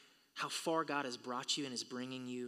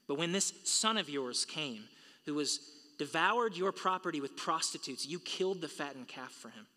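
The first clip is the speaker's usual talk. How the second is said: rising, indignant complaint, louder on the insult; resentful older son; 3 dB louder than usual. Acted. Older brother complaining to his father, indignant and loud. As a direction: air a sulky grievance at the father.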